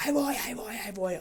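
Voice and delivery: mock her putting you off; mimicked brush-off. Lady in the waiting car putting him off, mimicked impatience.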